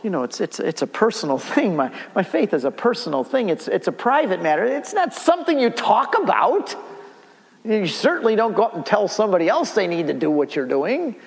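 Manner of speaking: lightly mocking impression of a hesitant Catholic; mock reticent Catholic. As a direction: play the shy Catholic who keeps faith private. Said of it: "Catholics tend to say".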